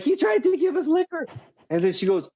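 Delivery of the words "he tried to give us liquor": put-on girl telling on him. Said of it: "she's like".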